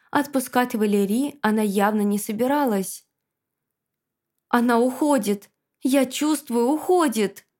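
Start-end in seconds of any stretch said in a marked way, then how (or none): 4.5-7.5 shaky rising alarm, pitch climbing; trembling voice. Acted. Ghost feeling Sophie slip away, trembling. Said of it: "дрожащим голосом произнёс призрак".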